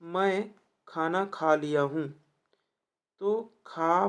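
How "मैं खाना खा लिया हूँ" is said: slow reading. Shown as a demonstration. Teacher reads the question sentence slowly to the class. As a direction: read मैं खाना खा लिया हूँ slowly, word by word. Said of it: "वाक्य का शुद्ध रूप है".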